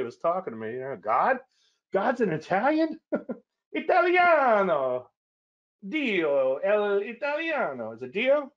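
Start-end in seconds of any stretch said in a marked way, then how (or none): 1.0-3.0 high-pitched mock Italian question; Italian accent. Joking that God is Italian. 3.7-8.5 put-on high, drawn-out Italian accent; hammed-up Italian, stretching the vowels; mock Italian. Playing Italian after the joke.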